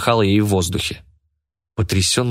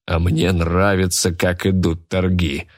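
usual speaking voice

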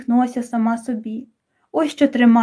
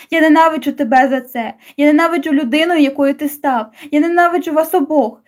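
mild yelling; 3 semitones higher than usual. Acted. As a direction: accuse him, building up. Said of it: "Я задихалася від криків". (помірний крик ненависті)

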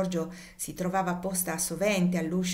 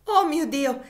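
much higher, louder cry breaking; fainting scream; 8 semitones higher, 8 dB louder, slower than usual. Acted. Cassie about to faint, a loud despairing cry. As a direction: scream it as she collapses. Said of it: "esclamò Cassie e cadde svenuta".

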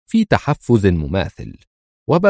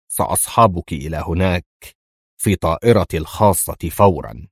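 boastful; 3 semitones lower than usual. A narrator's reading. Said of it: "في زهو وتفاخر واضحين".

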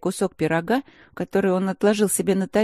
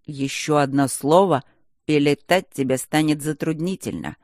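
warning; 2 semitones lower than usual. Acted. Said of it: "предостерегающе сказал".

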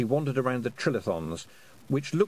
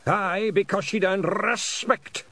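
slow, higher Scottish pride; echoing round the stones; solemn old Scot; 10 semitones higher, 6 dB louder, slower than usual. A narrator's reading. William solemn.

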